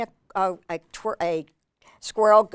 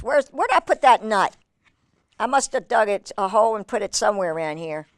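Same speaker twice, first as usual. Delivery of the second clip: a hint of a puzzled squirrel, pitched up at first; lightly voiced squirrel; faster than usual. Squirrel hunting for his nut, lightly puzzled. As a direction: wonder aloud as the squirrel, lightly. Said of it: "He says".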